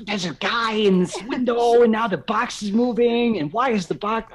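hushed but urgent yell; whisper yelling. Real, not acted. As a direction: shout it under your breath, panicked. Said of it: "Like, I'm whisper yelling".

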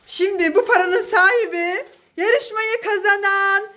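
slow, grand winner announcement; game show announcer. Acted. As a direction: announce the prize winner slowly.

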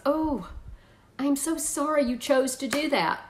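sorry, gently sympathetic; empathetic parent. Shown as a demonstration. Mother to child after a bad choice, gently sympathetic. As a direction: show real sorrow for the child's choice. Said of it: "here's how that sounds".

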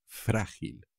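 "Frágil" with the first syllable stressed, softly falling away. Shown as a demonstration. Teacher reminding learners of the accent, stress on FRÁ in "Frágil". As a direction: lean on the FRÁ of "Frágil", quietly. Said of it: "También con un acento por ahí".

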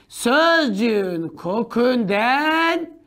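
slow dictation. Shown as a demonstration. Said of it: "Notunu al".

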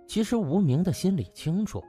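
ordinary delivery

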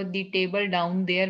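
"The table down there" said slowly, word by word; slow read-out example. Shown as a demonstration. Teacher slowly reading the sentence to the class. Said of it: "लेकिन अगर आपको".

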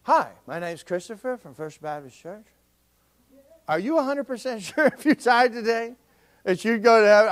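blunt door-knocker pitch. Retold or imitated. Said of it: "Comes to the door".

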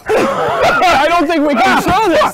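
high, loud laughing protest; laughing shout. Real, not acted. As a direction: shriek through laughter. Breaking up laughing at the fight.

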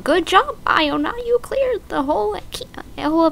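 high, bright excited read; squealing game cheer. Acted. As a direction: read the game line like it's thrilling. Reading game text excitedly.

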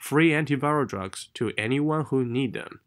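slightly lifted, run-together phrase; linked phrase. Shown as a demonstration. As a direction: link it without stopping. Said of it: "是一个连读的点".

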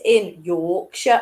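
put-on a failed stab at a Yorkshire accent; bad Yorkshire accent. Quiz host reading out a question, bad Yorkshire accent. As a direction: attempt a Yorkshire accent, badly and lightly. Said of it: "that's a terrible Yorkshire accent".

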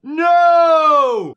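long, high, loud yell; drawn-out cry of outraged denial; shouted denial. Real, not acted. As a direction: yell it out in protest.

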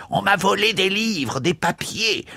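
high, urgent retold cry of a boy. Priest retelling the boy's cry, high and urgent. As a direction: voice the boy crying out from the doorway. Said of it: "il nous a crié dès la porte".

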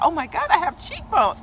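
high, loud gasp of delight; thrilled discovery. Retold or imitated. Telling fans about her new cheekbones, high thrilled cry. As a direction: announce it like a miracle. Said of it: "I was like".

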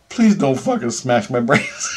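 retold begging that breaks into laughter; plead, cracking up at the end; laughing plea. Patient begging surgeon to spare his brain, laughing.

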